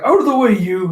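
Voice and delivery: quick high burst, acted out; mock shout. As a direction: playfully call out as a charging hero. Luffy barging through goons, acted.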